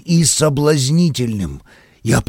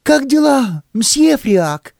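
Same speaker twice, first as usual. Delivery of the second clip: cheerful call; 11 semitones higher, slower than usual. A narrator's reading. Girl calls out cheerfully.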